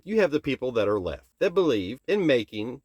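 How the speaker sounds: "making" pressed with weight; stress on making. Real, not acted. Ranting viewer stresses what the left does: stress on "making". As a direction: lean hard on the word "making". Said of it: "and I stress the word making".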